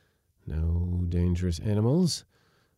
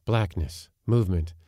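plain reading voice

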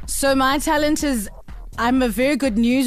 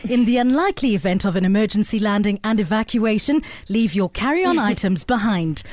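smooth cabin safety announcement; flight attendant. Acted. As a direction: read it like the in-flight safety briefing. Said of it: "sound like a great air hostess".

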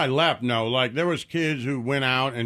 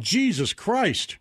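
slow exasperation; 5 semitones higher, much slower than usual. Retold or imitated. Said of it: "that's why I'm like".

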